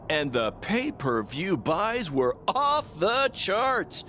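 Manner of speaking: high, slow, stretched-out gushing; gushing praise. Acted. Promoter congratulating two wrestlers after the show, gushing. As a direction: relish every triumph, drawing out key words.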